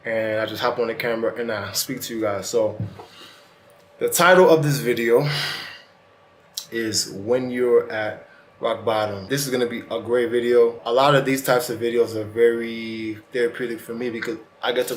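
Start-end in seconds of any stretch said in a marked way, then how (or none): 0.0-10.8 talking around a retainer; wearing a retainer. Real, not acted. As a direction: speak with a retainer in your mouth. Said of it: "if you hear me talking kinda weird, it's because, man, I got my retainer in".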